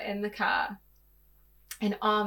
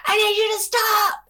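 higher, louder yell; retold scream; 12 semitones higher, 10 dB louder than usual. Yelling at partner in the car, higher and louder. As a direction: yell at him to stop. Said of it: "I feel like I just scream".

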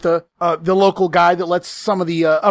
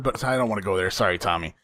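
much softer and lower; quiet aside; 11 semitones lower, 9 dB quieter, faster than usual. Real, not acted. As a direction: murmur an apology. Guilty aside to Tommy.

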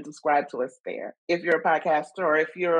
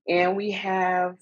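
slow, drawn-out host introduction; game show announcer voice; 4 semitones higher, slower than usual. Acted. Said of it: "my game show announcer voice".

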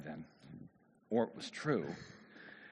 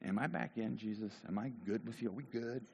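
unsure Peter; 6 dB quieter than usual. Acted. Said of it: "what was Peter feeling even then?".

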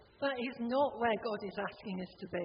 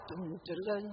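humming pirate theme; 4 semitones lower, 3 dB quieter than usual. Retold or imitated. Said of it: "Pirates of the Caribbean music".

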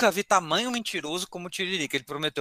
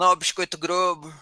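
vendor call; 3 semitones higher than usual. Retold or imitated. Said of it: "alguém falando".

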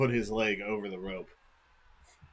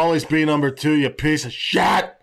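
trash-talk shout; 2 semitones higher, 4 dB louder than usual. Retold or imitated. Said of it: "So I was like".

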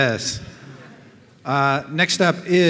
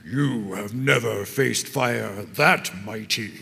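slow villain voice; 4 semitones lower, 3 dB quieter, slower than usual. Acted. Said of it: "he says".

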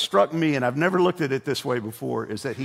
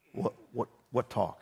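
quiet, hesitant stammer; low, soft acting out of a baffled dad; 3 semitones lower, 8 dB quieter than usual. Dad baffled by wife's suggestion.

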